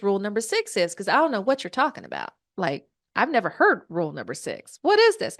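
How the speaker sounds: acted bewildered friend demanding answers; puzzled demand. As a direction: press for an explanation, mock indignant.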